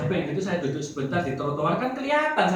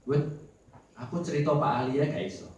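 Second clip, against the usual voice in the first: retold grumbling; 4 dB louder than usual. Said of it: "ngomel sama kakak saya".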